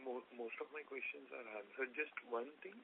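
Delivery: very soft, hard to hear; speaking far too quietly; barely audible. Real, not acted. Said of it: "your voice is very low".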